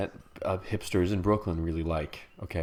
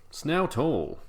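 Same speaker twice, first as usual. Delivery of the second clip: silly repetition; 10 semitones higher, slower than usual. Pretend. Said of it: "repeating the word playfully".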